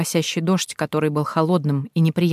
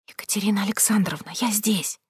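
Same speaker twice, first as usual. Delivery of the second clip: quiet voice; 3 semitones higher, 7 dB quieter than usual. A narrator's reading. Hiding girl softly calls the heroine from the bushes. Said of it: "тихий голос".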